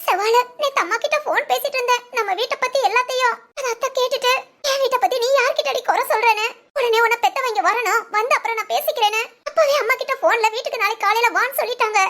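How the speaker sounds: a touch of tears in the voice; tearful. Acted. Daughter-in-law telling friend about the row, mildly tearful. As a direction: recount the trouble, close to crying. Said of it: "அதுக்கு எதுக்குடி அழுகுற".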